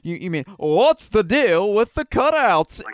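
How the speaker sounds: high, loud gasping question; energetic. Shown as a demonstration. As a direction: ask it with big excitement. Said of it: "you didn't put any energy into it".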